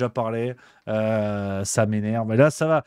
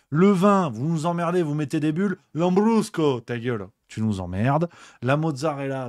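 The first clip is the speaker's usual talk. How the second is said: mock rant; 2 semitones higher than usual. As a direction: keep ranting, half-joking. Continued rant.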